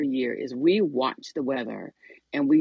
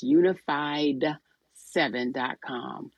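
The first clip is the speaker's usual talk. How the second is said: reading the web address out slowly; slow dictation; slower than usual. Shown as a demonstration. Host giving listeners the website, slow and clear. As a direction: spell out the site slowly so listeners can write it down. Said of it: "Unified, U N I F I E D".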